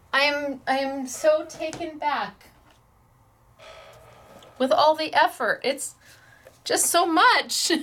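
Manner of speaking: taken aback, searching haltingly for words; emotional. Real, not acted. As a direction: overcome with feeling, halting with long pauses. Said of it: "getting so emotional".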